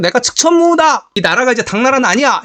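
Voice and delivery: high-pitched mock proclamation; lightly voiced empress declaring her rule; proclaiming empress. (여황제처럼 높은 음으로 선언하듯)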